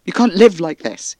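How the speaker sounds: loud, high, angry shout at her; angry yell. Acted. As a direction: yell it, furious and scared for her. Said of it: "I'm sorry I yelled".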